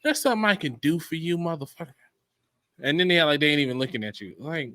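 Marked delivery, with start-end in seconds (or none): 0.0-1.9 mock polite greeting. To a man staring in the lounge, mock polite greeting. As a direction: fake courtesy that sours at the end. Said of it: "I always speak to you when you stare".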